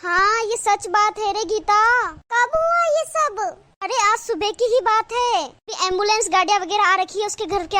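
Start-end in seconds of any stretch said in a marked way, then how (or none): 2.3-3.4 higher and slow, stunned; shocked question. Acted. Neighbour asks when the bride died, stunned and slow. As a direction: ask in disbelief, drawn out.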